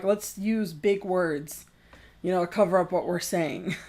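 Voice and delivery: mock overeducated. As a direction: mimic their overeducated talk, quietly. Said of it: "speaking in an overeducated manner".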